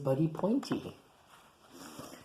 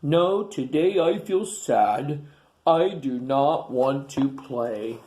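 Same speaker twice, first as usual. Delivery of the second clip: sad dinosaur voice; 5 dB louder, slower than usual. Acted. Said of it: "But Pointy looks sad".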